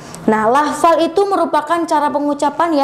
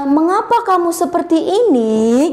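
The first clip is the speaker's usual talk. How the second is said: raised pitch, a mild stern primary school teacher; a hint of a stern teacher, pitched up; scolding teacher; 4 semitones higher than usual. Shown as a demonstration. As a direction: ask it like a cross teacher scolding a pupil. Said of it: "tinggi rendahnya suara".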